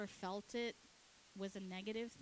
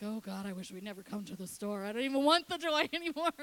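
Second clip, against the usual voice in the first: hammed-up boy's whine that climbs and swells; distraught child; 9 dB louder, faster than usual. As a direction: imitate a kid wailing in despair. Older son despairing in retold scene.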